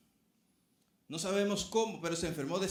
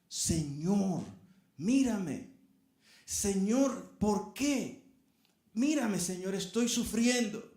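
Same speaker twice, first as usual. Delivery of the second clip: raised, pleading prayer; crying out to God; 3 semitones higher, slower than usual. Acted. Preacher acts out a suffering believer crying to the Lord, pleading. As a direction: plead in short, anguished bursts. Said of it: "Clamar a Dios".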